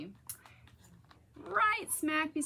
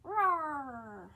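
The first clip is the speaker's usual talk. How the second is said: roar; 4 semitones higher than usual. Shown as a demonstration. Inviting children to roar along. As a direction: demo roar for kids. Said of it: "Can you make yours?".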